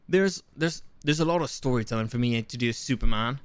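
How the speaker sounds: shaky attempt at a British accent; badly faked British actor. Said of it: "Should I do the British accent?".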